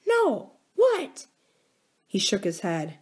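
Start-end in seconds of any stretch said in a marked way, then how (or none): 0.1-1.3 put-on eager girl. A narrator's reading. Abra eager for the secret.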